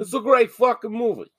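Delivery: high, loud enthusiastic rave; emphatic praise. Real, not acted. Repeats praise with more force.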